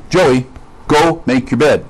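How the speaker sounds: put-on firm, direct order to a child; direct command. Shown as a demonstration. Pastor demonstrating a direct command to his son. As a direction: say it as a flat-out command.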